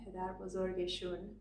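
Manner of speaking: shun said with an oo vowel; spoken Persian shun. Shown as a demonstration. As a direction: round the ending into shun. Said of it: "Or in spoken Persian".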